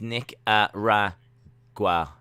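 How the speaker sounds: Nicaragua broken up as nik-uh-RA, pause, GWA; syllable-by-syllable pronunciation. Shown as a demonstration. Streamer telling viewers how it's pronounced, Nicaragua sounded out in pieces ending gwa. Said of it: "is pronounced".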